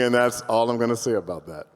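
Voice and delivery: normal talking voice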